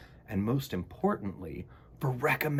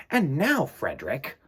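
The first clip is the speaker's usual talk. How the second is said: mice asking; 3 semitones higher than usual. Acted. Mice question Frederick.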